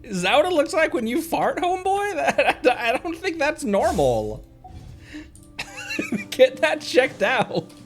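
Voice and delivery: high, loud teasing broken by real laughter; laughing. Real, not acted. Streamer ribbing a game character about a fart, laughing. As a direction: barely get it out through the laughs, high-pitched.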